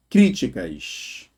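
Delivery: críticas spelled out slowly syllable by syllable, crí-ti-cas; slow syllable split. Shown as a demonstration. Teacher to class, sounding out the syllables slowly. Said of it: "na letra A".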